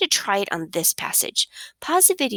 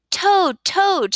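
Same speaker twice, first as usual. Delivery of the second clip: high, loud, eager call; excited shout; 10 semitones higher, 5 dB louder than usual. A narrator's reading. Frog shouting to Toad inside the house, excited shout. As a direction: call out excitedly to wake a friend. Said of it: "shouted Frog".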